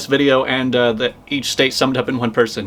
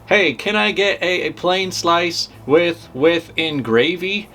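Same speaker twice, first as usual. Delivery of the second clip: mock New Jersey accent; 3 semitones higher, slower than usual. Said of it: "That's how we do it in Joyzy".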